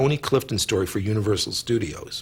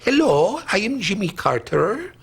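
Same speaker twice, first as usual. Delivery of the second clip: Jimmy Carter impression; 9 semitones higher than usual. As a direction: announce yourself like a stiff politician. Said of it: "I'd like to do the Jimmy Carter".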